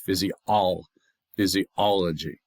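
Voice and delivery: physiology slowly, third syllable stressed; stress on ALL. Shown as a demonstration. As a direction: say "physiology" with the weight on OL. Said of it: "It's the all".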